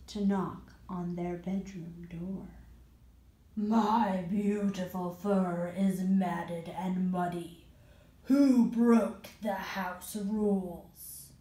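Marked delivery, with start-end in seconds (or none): 3.5-11.3 slow, drawn-out monster voice; a slow menacing creature; rug monster voice. Acted.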